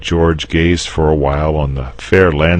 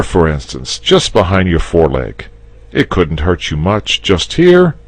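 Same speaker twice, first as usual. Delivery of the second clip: higher, louder, kindly explaining; reasonable knight; 5 semitones higher, 6 dB louder than usual. Acted. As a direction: talk him round gently. George's speech, character voice.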